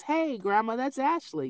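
granddaughter voice. Retold or imitated. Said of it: "she knows".

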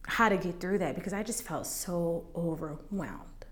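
near whisper. Real, not acted. Recalling feeling overwhelmed, almost whispered. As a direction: breathe it out, overwhelmed. Emotional retelling of suicide story.

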